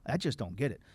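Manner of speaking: soft, puzzled mock muttering; a touch of lost confusion under the breath; hushed bafflement. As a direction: quietly relive not getting it. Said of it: "I still scratched my head and said".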